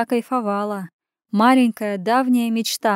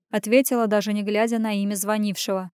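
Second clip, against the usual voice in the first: ordinary delivery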